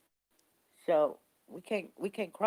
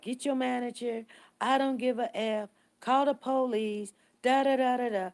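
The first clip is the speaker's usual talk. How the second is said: retold angry rant, a bit raised; mock a yelling customer, slightly higher and louder; mad customer; 5 semitones higher, 4 dB louder than usual. Angry black woman demands the store manager, mock yelling. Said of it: "she yelling and screaming".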